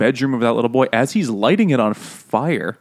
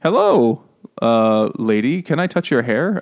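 imitated clueless greeting. Boy approaches the lady about her hair, mock-innocent voice. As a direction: play an awkward, oblivious asker.

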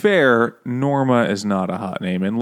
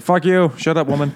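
higher, louder acted put-down; mock angry dismissal; 6 semitones higher, 3 dB louder than usual. Studio men shutting Norma up, mock angry dismissal. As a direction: imitate them cutting her off rudely.

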